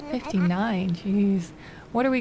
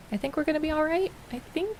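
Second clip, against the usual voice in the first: relieved excitement; 7 semitones higher than usual. Real, not acted. Relieved about the quest.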